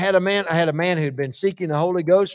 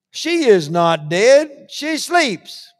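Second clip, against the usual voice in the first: slow solemn; 4 semitones higher, much slower than usual. Acted. Jesus quoted slowly, deliberate.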